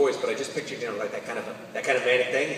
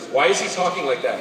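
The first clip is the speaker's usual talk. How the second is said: put-on baffled kid; 3 semitones higher, 7 dB louder than usual. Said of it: "His head whips around and goes".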